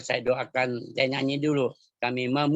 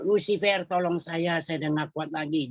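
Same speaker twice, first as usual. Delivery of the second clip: imitated cry to Lucifer, high start falling away; mock plea for help; 4 semitones higher than usual. Spirit calling its devil commander for help, mock plea. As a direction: call out high, then sink back. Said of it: "Dia panggil komandan iblisnya".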